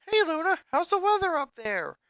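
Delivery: put-on high teasing kid sister; chuckling joker. A narrator's reading. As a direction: tease her lightly, chuckling. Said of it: "she chuckled".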